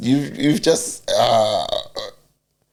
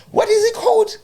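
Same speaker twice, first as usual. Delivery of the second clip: puzzled listener; 3 dB louder than usual. Retold or imitated. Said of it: "everyone go like".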